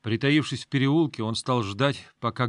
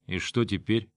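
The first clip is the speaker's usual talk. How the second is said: stern. Acted. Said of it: "сурово спросил Грон".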